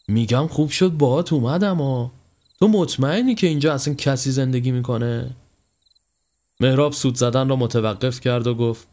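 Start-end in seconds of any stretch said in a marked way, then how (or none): 0.1-5.3 mild nervous unease; a touch of fear in the questioning; trembling voice. Acted. Uneasy friend on a dark village road, mildly trembling. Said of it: "پیمان با صدایی لرزان گفت".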